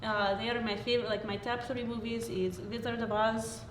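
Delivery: put-on light Slovak accent; a hint of a Slovak accent. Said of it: "Slovak accent".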